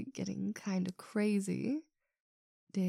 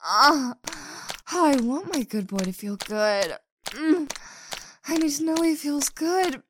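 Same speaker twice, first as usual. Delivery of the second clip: louder, breathy-edged passionate insistence; intense urging; 4 semitones higher, 10 dB louder than usual. Acted. Woman urging her partner to answer, intense. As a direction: urge a partner on, louder and more pressing.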